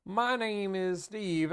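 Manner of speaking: a hint of the high cartoon mouse, slow; half-hearted squeaky mouse voice; light mock cartoon mouse; lightly voiced Mickey Mouse. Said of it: "I went into a Mickey Mouse voice".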